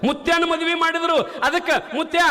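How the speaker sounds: high, cheeky schoolboy voices; mock the old man playfully; teasing boys.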